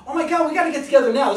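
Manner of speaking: can't contain the excitement; thrilled exclamation. Shown as a demonstration. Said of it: "like I've just demonstrated with you right".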